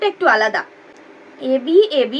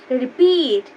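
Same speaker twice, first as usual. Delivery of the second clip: রিপিট with the second syllable পিট stressed; stress on PEAT; 4 semitones lower, much slower than usual. Shown as a demonstration. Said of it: "পিটাকে একটু বেশি উচ্চারণ করছি". (রিপিট-এর 'পিট' অংশে জোর)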